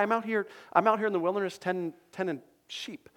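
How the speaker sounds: lightly voiced nervous Moses; rushed protest. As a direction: blurt it out like a flustered shepherd. Moses protests his calling.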